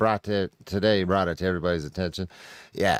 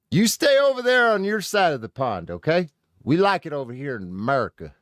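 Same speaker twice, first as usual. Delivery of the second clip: higher, hammed-up scolding tone; mock telling-off; 7 semitones higher, 3 dB louder than usual. Streamer mockingly telling Brits to stay home. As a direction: shoo them back across the pond.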